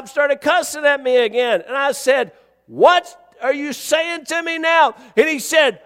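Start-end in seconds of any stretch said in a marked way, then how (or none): 2.7-4.9 slow, high, raised challenge; retold confrontation. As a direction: demand an explanation in a retelling.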